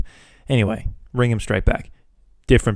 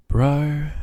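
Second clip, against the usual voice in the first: higher, drawn-out whine; exasperated protest; 6 semitones higher than usual. Retold or imitated. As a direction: draw it out in disbelief. Fed up with the runaround.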